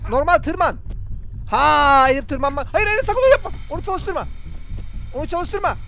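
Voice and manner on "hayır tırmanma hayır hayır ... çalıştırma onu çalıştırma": frantic warning to the character; panicked pleading. Real, not acted. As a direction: beg him to stop before it's too late. Begging the character to stop.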